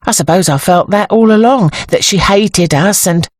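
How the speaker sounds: pensive, dawning agreement; thoughtful. A narrator's reading. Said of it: "said Sybil thoughtfully".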